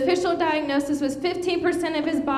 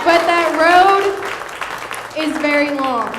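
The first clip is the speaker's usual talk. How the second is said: emphatic announcement; 7 dB louder than usual. Real, not acted. Announcer stresses the long road.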